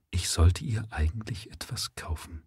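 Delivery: soft unvoiced whisper. A narrator's reading. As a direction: breathe it as a private thought. Doctor's inner thought, whispered.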